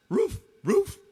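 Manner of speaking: high, punched doggy woof; sharp high dog bark; joke dog barking. Acted. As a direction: bark the words like an excited dog. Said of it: "The dog says".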